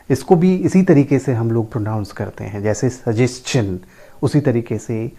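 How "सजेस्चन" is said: सजेशन said as su-JES-chun; correct pronunciation. Shown as a demonstration. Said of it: "the correct pronunciation is". (सजेशन का सही उच्चारण, स-जेस-चन)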